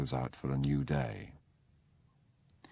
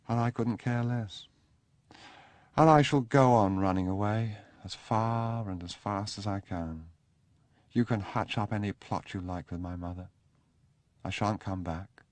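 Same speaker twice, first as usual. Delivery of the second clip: put-on higher young man's voice, sulky and defiant; defiant Sebastian; 5 semitones higher than usual. Sebastian refusing Charles's plea, sulky and defiant. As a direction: toss it off like a sullen child.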